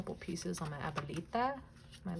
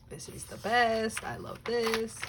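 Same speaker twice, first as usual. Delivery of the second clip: excited; 5 semitones higher, 5 dB louder, slower than usual. Real, not acted. Excited about a new picture.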